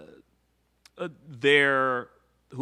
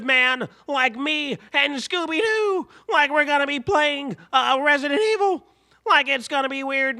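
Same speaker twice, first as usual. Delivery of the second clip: much higher, louder Shaggy impression; 11 semitones higher, 5 dB louder than usual. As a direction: talk like Shaggy, laid-back and goofy. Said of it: "not ready to do that damn voice".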